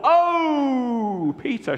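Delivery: high, excited Mary voice; Mary speaking. Acted. Mary bursts in to tell Peter the news. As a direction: gush it out in a high voice. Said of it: "she said".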